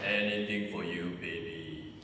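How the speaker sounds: low smooth lover voice; seductive. Acted. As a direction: drop the voice low and suave.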